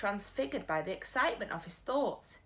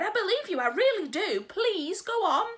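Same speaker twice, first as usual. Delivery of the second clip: louder, higher urgent pleading; cried; 12 semitones higher, 7 dB louder than usual. Acted. Sophie pleading with the giant, loud. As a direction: beg him to believe her. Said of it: "Sophie cried".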